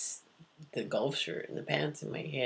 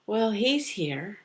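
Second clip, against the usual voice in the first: startled realisation; 4 semitones higher, 9 dB louder, slower than usual. Retold or imitated. Blurts out her realisation.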